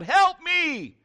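high, loud acted cry for help; stranded boy's shout; yelling for help. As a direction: yell up the mountain for rescue. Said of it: "he yells out".

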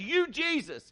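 lightly voiced rough guy, awed; awed rough dude. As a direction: let it hang in awe. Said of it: "That's what the guy says".

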